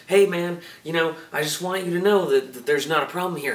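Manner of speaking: loud, fast, anxious message; hurried nervous voicemail; frantic. Retold or imitated.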